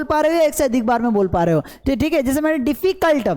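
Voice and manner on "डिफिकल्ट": "डिफिकल्ट" broken into two beats, डिफि-कल्ट; said in two parts. Shown as a demonstration. Teacher counting syllables for students, "डिफिकल्ट" in two parts. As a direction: split "डिफिकल्ट" after डिफि, one beat each part. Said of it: "दो बार में बोला गया".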